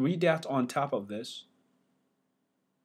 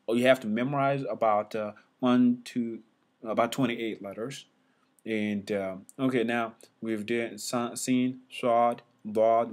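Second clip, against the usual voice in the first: ordinary delivery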